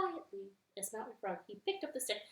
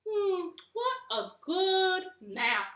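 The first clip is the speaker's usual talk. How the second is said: slow, stretching frog voice after a nap; sleepy frog; 4 semitones higher, 6 dB louder than usual. Acted. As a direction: yawn it out, content.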